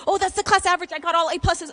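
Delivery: a sudden oh as she rereads the card; retold realization. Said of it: "And then I look, I'm like".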